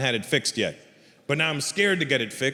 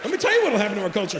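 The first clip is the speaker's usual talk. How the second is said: higher, fast build-up; rapid, worked-up comeback; heated retort; 4 semitones higher, much faster than usual. Acted. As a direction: rattle it off, building to an outburst. Heated answer to the parents.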